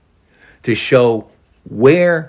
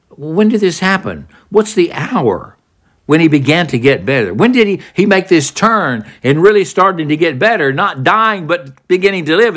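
higher, urgent questions; eager father; 6 semitones higher than usual. Acted. Father asking servants when his son recovered, eager. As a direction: press the servants for the hour.

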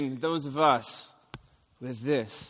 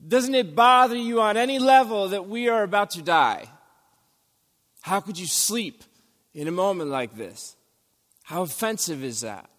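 1 panicked disciples; 4 semitones higher than usual. Retold or imitated. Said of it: "The disciples go".

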